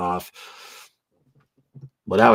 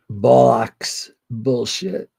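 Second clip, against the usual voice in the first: mock British accent; 4 semitones higher, 7 dB louder, much slower than usual. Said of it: "The Brits have strange sayings".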